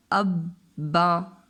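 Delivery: "अब बा" spelled out slowly with the ब doubled; tashdeed demo. Shown as a demonstration. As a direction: say "अब" then "बा" firmly, ब twice. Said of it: "दूसरी दफ़ा किस तरह से पढ़ेंगे". ("अब बा" को ब दोहराकर ज़ोर से)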